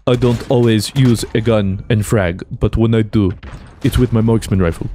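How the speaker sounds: badly faked Dos Equis accent, measured pace; Dos Equis man accent. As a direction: lightly put on a bad Dos Equis ad accent. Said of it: "apologies on that accent".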